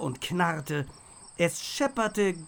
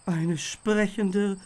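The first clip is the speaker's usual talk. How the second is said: slow, higher, louder disbelieving croak; stunned croak; 5 semitones higher, 5 dB louder, slower than usual. A narrator's reading. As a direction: gasp it out in disbelief, slowly. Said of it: "krächzte Theo fassungslos".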